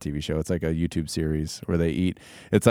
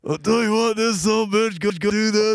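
Stone Cold impression; 3 dB louder than usual. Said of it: "I can't do an impression of him".

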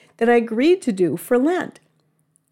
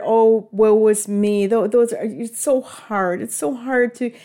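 dramatic sigh. Retold or imitated. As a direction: sigh it out, self-pitying. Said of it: "And then afterward".

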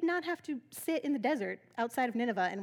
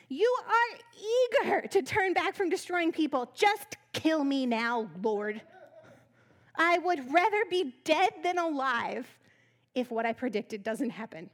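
mock furious; 2 semitones higher, 4 dB louder, slower than usual. Jonah sulking loudly at God, mock furious. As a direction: drag out every bitter word. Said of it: "saying that really mad".

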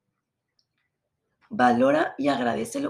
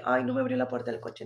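much lower mocking diva whine; spoiled diva; 12 semitones lower, 3 dB quieter than usual. Mocking her old entitled self over car doors, spoiled diva. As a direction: sneer as the entitled girl. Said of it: "la típica mamona".

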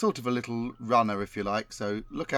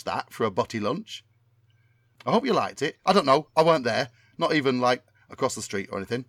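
Tommy Cannon impression. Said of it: "my memory of what Tommy Cannon sounds like".

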